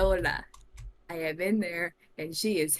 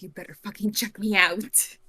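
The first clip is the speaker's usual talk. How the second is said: threatening; 6 dB louder than usual. Acted. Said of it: "with a knife to his throat".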